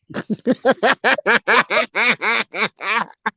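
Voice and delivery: long bursting laugh after the punchline; laughing at own joke. Real, not acted. After telling the duck joke, a long real laugh. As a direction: crack up at your own joke.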